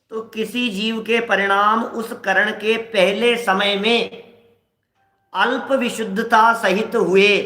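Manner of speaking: slow, measured reading aloud; drawn-out, deliberate recitation of a text; scripture reading. Acted. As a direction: read the text out phrase by phrase, slowly.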